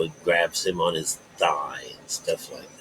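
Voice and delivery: hushed whisper while telling the story. Real, not acted. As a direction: drop to a secret whisper. Storytelling aside, voice drops.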